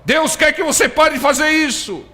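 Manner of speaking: high, loud scolding; the same words hurled as a harsh accusation. Shown as a demonstration. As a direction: bark it as a stern rebuke. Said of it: "Mudou a entonação".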